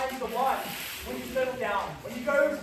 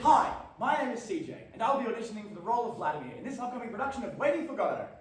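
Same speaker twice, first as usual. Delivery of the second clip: eager audition; faster than usual. Acted. Actor's eager audition introduction.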